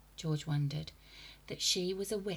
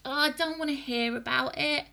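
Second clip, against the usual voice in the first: put-on boy crying out; 9 semitones higher, 6 dB louder than usual. A narrator's reading. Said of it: "cried George".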